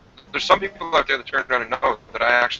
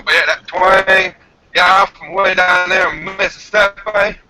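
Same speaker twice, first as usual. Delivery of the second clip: put-on slow Mississippi twang, a bit louder; southern twang; 3 semitones higher, 4 dB louder, slower than usual. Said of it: "put that southern slang in the twang".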